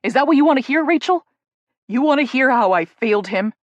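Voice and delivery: loud, raw, building to a near shout; anguished loud confession rising to a shout; anguished outburst. Acted. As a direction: hurl it at her, hurting. Jake's anguished outburst at Rachel.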